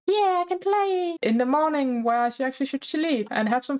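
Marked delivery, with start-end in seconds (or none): 0.1-1.2 pitched-up pretend glee; playful infant delight. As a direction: cheer like a pleased baby. Infant cheers at getting to play.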